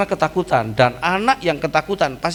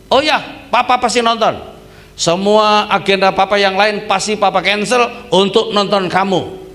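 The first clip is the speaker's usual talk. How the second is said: eager delighted father; 6 semitones higher, 4 dB louder than usual. Retold or imitated. Father eagerly accepts son's invitation.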